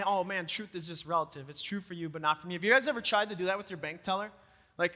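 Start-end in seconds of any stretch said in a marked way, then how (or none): 0.0-2.5 softer, lower mock brush-off of "true for you"; dismissive shrug. Pastor imitating people dismissing moral truth, soft mock shrug. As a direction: lightly mimic someone waving off truth. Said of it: "And then we start saying".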